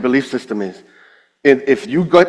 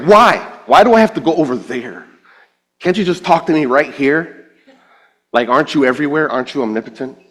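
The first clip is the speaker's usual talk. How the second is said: exasperated protest; 2 semitones higher than usual. Retold or imitated. Believer questioning God's instruction, exasperated protest. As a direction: argue back like a put-upon kid.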